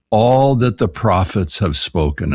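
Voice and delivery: "all" punched and given weight, the rest read slowly; stress on ALL. Shown as a demonstration. Professor quoting Jesus to the Emmaus disciples, stressing "all". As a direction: lean hard on the word "all" as you quote. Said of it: "I emphasize the word all".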